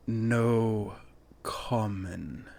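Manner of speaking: slow, halting creature voice; two words spaced far apart, falling away; lightly voiced foreign-tongued demon; demon speaking aloud. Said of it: "the figure says out loud".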